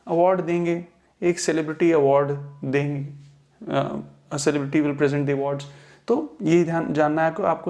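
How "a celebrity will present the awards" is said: slow example read, present said pri-ZENT; weight on the second syllable of present; verb stress. Shown as a demonstration. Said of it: "verb की तरीके से इस्तेमाल".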